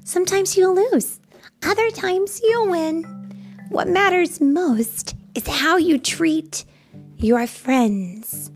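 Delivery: high, earnest storybook friend; high-pitched gentle lesson; comforting. A narrator's reading. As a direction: explain it kindly to a sad pal. Lulu consoles and teaches Coyote.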